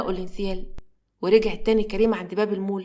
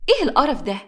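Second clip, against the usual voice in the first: fed up; 5 semitones higher than usual. Acted. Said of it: "وفي الآخر فاض فيها".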